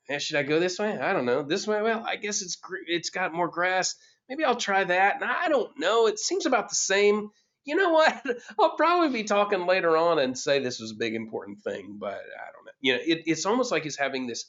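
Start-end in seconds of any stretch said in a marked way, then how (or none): 0.1-11.1 higher-pitched, acted internal dialogue; undecided self-talk in a raised pitch; musing to oneself. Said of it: "it's like he's talking to himself". 11.1-12.7 softer self-talk, trailing away; doubtful aside to oneself, fading; musing to oneself. Acted. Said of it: "it's like he's talking to himself".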